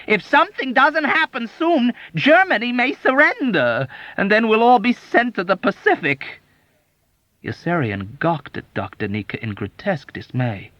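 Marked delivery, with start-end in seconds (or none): 0.0-6.4 anxious lament. A narrator's reading. Doctor's panicked lament.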